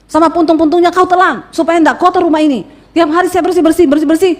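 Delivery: acted nagging wife's tirade; angry scolding. Wife tells off smoking husband over ash, acted angry scolding. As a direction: scold him, mildly worked up. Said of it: "saya marah. Saya bilang".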